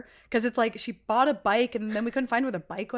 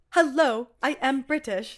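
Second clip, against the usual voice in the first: bad British accent; 3 semitones higher, slower than usual. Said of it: "She goes like this".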